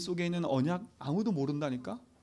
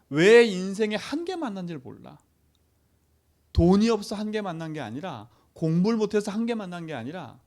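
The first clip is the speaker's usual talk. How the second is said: preaching loud; 5 dB louder than usual. Real, not acted. Preaching climax.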